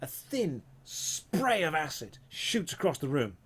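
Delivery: slow, dramatic scene setting; game master narration. Acted. Game master describing an acid attack to players, dramatic narration. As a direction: draw out the action word by word.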